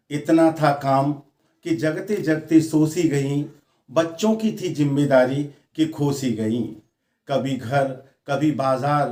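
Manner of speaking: lightly declaimed verse, phrase by phrase; poem recitation. Acted. Poet to a wife lost in household chores, measured recitation. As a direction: let each refrain settle downward at the end.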